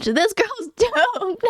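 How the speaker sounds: slow, drawn out and laughing through it. Real, not acted. Gamer laughing that the heroine is doomed, slow. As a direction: laugh helplessly at her fate.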